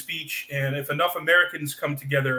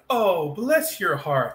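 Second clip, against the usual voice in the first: slow, sincere "Oh, bless your heart"; mean it kindly, drawn out slowly; slow kind Southern blessing; genuine and sweet; 3 semitones higher, much slower than usual. Retold or imitated. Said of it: "That's genuine".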